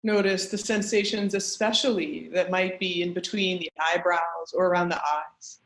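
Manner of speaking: measured meditation guide with long pauses; guided meditation. Acted. Teacher guiding an online group through a grounding practice, guided meditation. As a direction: lead them gently inward, pausing between instructions.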